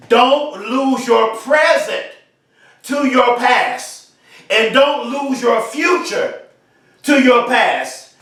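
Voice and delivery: slow, each word set apart with pauses; slow and deliberate, pausing between phrases; said very slowly. Shown as a demonstration. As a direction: lay it down slowly so it sinks in. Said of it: "I'm gonna say that very slowly".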